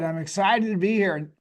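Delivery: slightly hoarse, raspy voice. Real, not acted. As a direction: talk through a worn, raspy throat. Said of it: "I have a little bit of a raspy voice".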